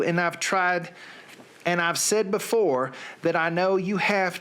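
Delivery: a lightly put-on Southern accent. Reading song lyrics to his listeners, in a light Southern accent. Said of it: "with a Southern accent".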